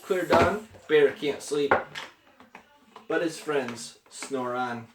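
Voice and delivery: lilting picture-book read-aloud, falling at line ends; story narration. A narrator's reading. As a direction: read a bedtime book to a small child. Reads picture book to child.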